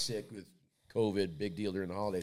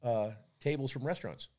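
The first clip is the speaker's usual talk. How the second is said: slow suggestion; slower than usual. Retold or imitated. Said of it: "She goes".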